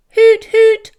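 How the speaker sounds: high, loud owl-like hoot; hooting call. Acted. Casper the camper calling out to friends, loud high hoot. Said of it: "called Casper".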